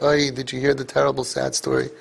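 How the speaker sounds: gossipy "Oy", fading to a hushed "sad story"; mock gossip. Rabbi mimicking bystanders who gossip, hushed mock gossip. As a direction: play a nosy neighbour passing on the news.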